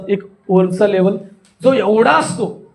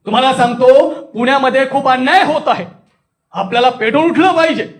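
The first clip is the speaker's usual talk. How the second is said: rousing protest speech, raised and forceful; fiery wrathful appeal; 2 semitones higher, 3 dB louder than usual. Shown as a demonstration. Speaker rousing listeners against injustice in Pune, indignant and forceful. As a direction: stir the crowd against injustice. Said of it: "तिथं तो रसच वापरावा लागतो".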